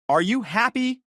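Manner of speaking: shrill furious scream. A narrator's reading. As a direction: scream it at him, high and loud. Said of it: "She screamed so loud".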